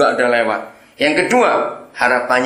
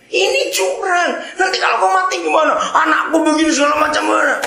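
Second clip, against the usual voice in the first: whining protest. Acted. Stubborn man protests to the angel, high and whiny. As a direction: complain like a cheated man.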